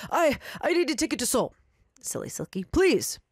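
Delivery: breathless rushed request; a man late and panicking; flustered businessman. Acted. Rushed businessman asks for ticket.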